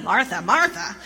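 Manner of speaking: firm, impatient call of the name; stern scolding. Shown as a demonstration. Jesus scolding a busy Martha, firm and impatient. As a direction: say her name like a reprimand. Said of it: "It's not like".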